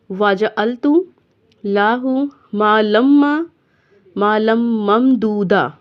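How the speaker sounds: recitation. Shown as a demonstration. Teacher recites verse.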